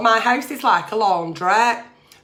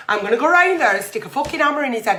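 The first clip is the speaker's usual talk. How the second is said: angry; 3 semitones higher, 3 dB louder, much faster than usual. Acted. Voices husband's angry reaction.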